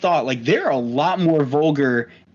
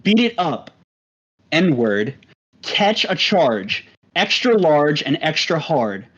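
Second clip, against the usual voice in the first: lightly put-on, measured white-guy recital; whitest voice. Shown as a demonstration. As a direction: read rap lyrics out carefully, evenly spaced. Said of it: "read it in the whitest voice that you got".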